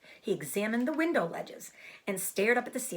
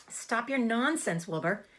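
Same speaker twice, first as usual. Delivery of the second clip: put-on scolding old sheep; 4 semitones higher than usual. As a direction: scold the silly pig.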